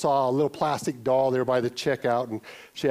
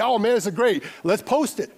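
mock delight; 5 semitones higher than usual. Mock delight at group photo.

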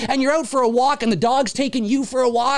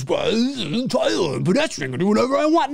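arrogant pedestrian. Retold or imitated.

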